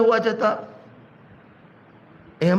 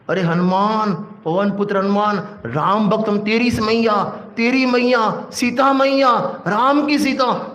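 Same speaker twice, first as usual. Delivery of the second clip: rising excited cheering, pitch climbing higher; egging on; 3 semitones higher than usual. Retold or imitated. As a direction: pump him up like a cheering crowd. सब ने हवा भरी, हनुमान को उकसाना. (जोश से उकसाते हुए)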